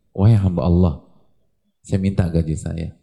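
a humble worker politely claiming his pay; worker asking for wages. Retold or imitated. Worker calls to his boss for his wages, firm and respectful. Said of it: "Ngomongnya begitu lagi".

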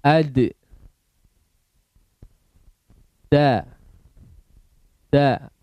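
each syllable a single loud drawn-out call; drilled letter sounds. Shown as a demonstration. Teacher leading a recitation drill, loud calls. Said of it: "Sekarang dal".

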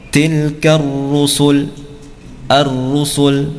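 tilkar rusul slow, with a thick rolled ra; heavy ra. Shown as a demonstration. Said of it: "ra-nya dibaca tebal".

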